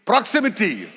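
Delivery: "Proximity" in a Malayalam accent, rounded o. Shown as a demonstration. Preacher counts the congregation in to say proximity, Malayalam accent. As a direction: lead the word "Proximity" in a Malayalam English accent. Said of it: "say proximity in Malayalam accent".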